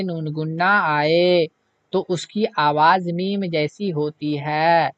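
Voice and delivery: slow, deliberate reading of a rule; slow reading aloud. Shown as a demonstration. Teacher reads the rule aloud to students, slow and deliberate. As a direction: read the rule out word by word. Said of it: "एक point और नीचे भी दिया हुआ है".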